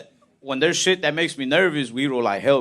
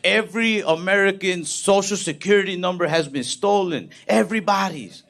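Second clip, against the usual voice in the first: higher-pitched, mildly alarmed news report; mock freaking out; 4 semitones higher than usual. Newscaster reporting stolen numbers to the nation, mock alarm. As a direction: imitate a newscaster in a slight panic. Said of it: "on the news freaking out".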